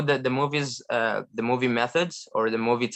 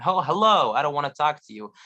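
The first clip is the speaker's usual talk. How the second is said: dismissive hello with falling tune; unwelcoming hello; 2 semitones higher than usual. Shown as a demonstration. Learner showing a hello to someone unwanted, dismissive. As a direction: brush someone off with your greeting. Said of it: "It gives you another meaning".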